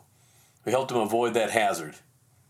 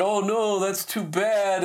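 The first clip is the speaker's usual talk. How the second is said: higher, drawn-out sympathy; retold commiserating, pitched up; 6 semitones higher, slower than usual. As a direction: stretch it out in sympathy for their plight. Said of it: "I was commiserating with their plight".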